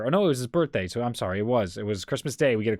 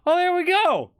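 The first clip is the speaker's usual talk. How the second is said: put-on much higher, slow, overjoyed old man; delighted grandpa; 12 semitones higher, 3 dB louder, slower than usual. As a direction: gush like a proud grandfather. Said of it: "and he goes".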